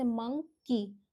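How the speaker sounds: मंकी said slowly in two parts, मं then की; split into syllables. Shown as a demonstration. Teacher showing children two sounds, मंकी split slowly. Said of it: "इनकी अलग-अलग sound है".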